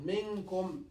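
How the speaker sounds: منكم with the nun half hidden before k; ikhfa demo. Shown as a demonstration. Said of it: "Kaf, for example".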